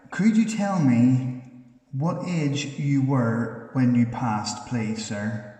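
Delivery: loud, slow, carefully spaced question; slow, loud call into an empty room; calling out to a spirit. Real, not acted. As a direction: project the question out to an unseen spirit.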